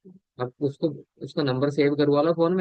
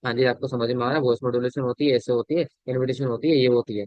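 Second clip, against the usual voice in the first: demonstrating speech without voice modulation; monotonous, hurried-along sample; unmodulated delivery. Shown as a demonstration. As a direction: run the phrases on in one unvaried tone. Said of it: "अगर मैं यहाँ पे बोलता रहूँ ऐसा ना".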